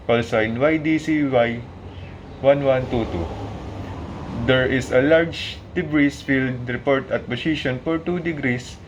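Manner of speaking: formal securité radio broadcast; radio safety call. Shown as a demonstration. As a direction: read it like a marine radio safety warning. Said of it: "demonstrate to you how to announce ... safety message".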